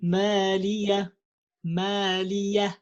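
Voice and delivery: مالية ending in an a, no ha; ha replaced by alif. Shown as a demonstration. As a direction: drop the ha for an alif. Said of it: "And you say".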